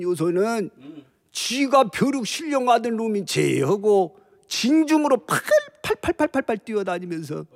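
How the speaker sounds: tipsy general mocking his foes; lightly slurred, scornful drunk general; drunk Cao Cao. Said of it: "술 취한 연기예요".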